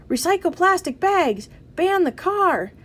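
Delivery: high, punchy protest chant; bellowed slogans. A narrator's reading. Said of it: "they bellowed".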